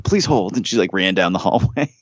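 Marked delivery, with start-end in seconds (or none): 0.0-0.5 higher-pitched imitation of the receptionist; front desk girl. Desk girl putting an angry guest on hold, lightly imitated higher voice. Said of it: "she's like".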